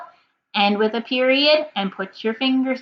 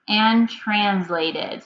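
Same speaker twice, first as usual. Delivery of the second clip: slow, drawn-out word; much slower than usual. Shown as a demonstration. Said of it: "Your real life words for this week are".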